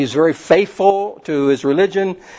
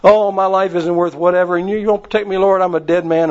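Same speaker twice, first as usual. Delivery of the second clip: Elijah's lament; 5 semitones higher than usual. Retold or imitated. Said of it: "And he's going".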